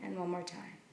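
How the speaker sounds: measured meditation guidance with long pauses between phrases; unhurried, leave room to breathe after each instruction; guided meditation. Acted. Teacher settling listeners into their seats and breath, guided meditation.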